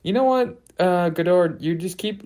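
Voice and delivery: high, squeaky voice as Truffaut telling him off; high mock Truffaut fed up with Godard. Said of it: "took that on ... and said".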